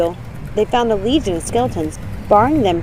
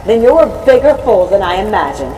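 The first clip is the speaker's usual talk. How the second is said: a hint of a menacing ghostly mother, louder; vengeful dead mother; 5 dB louder than usual. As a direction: threaten her daughter from beyond.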